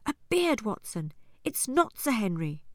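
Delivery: loud, high burst of discovery; excited shout. Acted. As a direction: cry it out in sudden relief. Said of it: "Holmes shouted excitedly".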